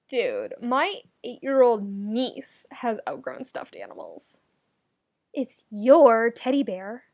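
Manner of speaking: slow, teasing jab; drawn-out mockery of a grown man's teddy; mocking disbelief. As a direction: drag it out to rub it in. Keith mocks Lance's teddy bear.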